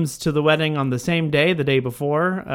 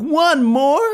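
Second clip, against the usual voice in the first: high hopeful call; 12 semitones higher, 5 dB louder than usual. Retold or imitated. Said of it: "Meryl Streep being like".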